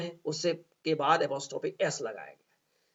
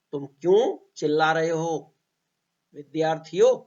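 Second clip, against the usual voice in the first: scolding tone. Shown as a demonstration. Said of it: "कहने का style भी थोड़ा सा इस तरह से होगा".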